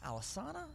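The band's name said al-uh-SAH-nuh, third A as in "father"; the name with broad A. Shown as a demonstration. Host testing the band's name, with a broad A. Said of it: "I don't even know what it is".

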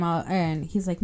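normal talking voice

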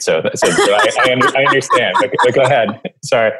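laughing while stumbling over words; trying not to crack up; stifled giggles. Real, not acted. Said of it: "trying not to laugh".

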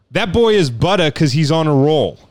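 lightly voiced sportscaster catchphrase; Stuart Scott. Host quotes a catchphrase while avoiding an accent, restrained announcer impression. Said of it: "doing my best not to do an accent".

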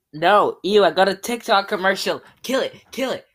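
loud, high mock-horrified yelling; disgusted outcry. Real, not acted. Gamer hit by a TikTok commercial, disgusted outcry. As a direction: cry out as if attacked. Ad pops up during game.

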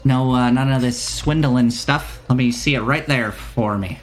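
merchant with a put-on accent, mildly insistent; lightly wary shopkeeper. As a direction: play a trader guarding against swindlers. Shopkeeper demands payment first.

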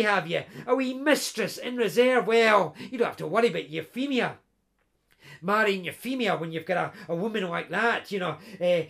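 knowing, teasing pal; sly ribbing. Acted. Best pal teasing the laird about a mistress, sly. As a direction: wink at him as you tease.

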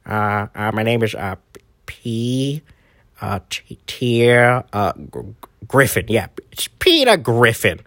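a lightly voiced bumbling Peter Griffin, stammering. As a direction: stumble through the name like a dopey cartoon dad. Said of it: "when he goes".

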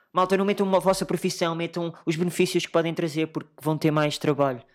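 imitating a self-promoting LinkedIn poster; LinkedIn show-off.

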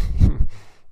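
loud, voiceless burst of breath; short, loud mock reaction noise; imitated startled reaction. Person thrown by a question about their accent, imitated startled breath.

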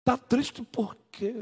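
mocking the offender again. Pastor repeats the offender's question mockingly. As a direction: drag out the careless question. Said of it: "a pessoa que feriu perguntar a você".

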